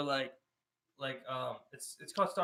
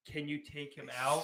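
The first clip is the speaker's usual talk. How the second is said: slow, pointed ask; pointed request; 2 semitones lower, slower than usual. Retold or imitated. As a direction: draw out the request as in a retold nag. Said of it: "You ever say it like that?".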